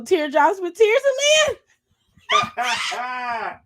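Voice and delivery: hosts pitching a talk show title, climbing, drawn-out announcer read; show-title announcement. Pretend. Co-host pitching the show name, rising announcer call. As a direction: build the title up high and loud, stretching it out.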